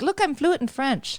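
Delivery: high, drawn-out mock brag; mock boasting. Imagining a friend fluent in French, mock boasting. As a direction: imitate a show-off, slow and high.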